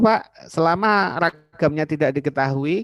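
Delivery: mock student's question to the lecturer; student asking. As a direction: ask it like an eager student raising a doubt.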